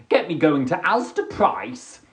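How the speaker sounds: ordinary delivery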